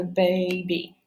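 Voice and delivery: put-on "baby" slowly, in two syllables; "baby" with a clear long E at the end; word sounded out. Shown as a demonstration. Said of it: "the long E sound".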